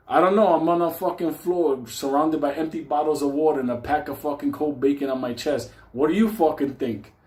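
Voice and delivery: loud, high, fed up; exasperated yell. Retold or imitated. Answering the paramedic from the floor, loud exasperated yell. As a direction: snap back at the dumb question.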